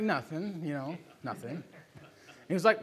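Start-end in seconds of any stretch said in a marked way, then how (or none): 0.0-1.6 sheepish denial. Retold or imitated. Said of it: "He's like".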